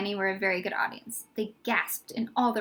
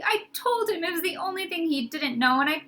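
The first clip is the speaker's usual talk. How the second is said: tearful; 6 semitones higher than usual. Acted. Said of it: "he sobbed".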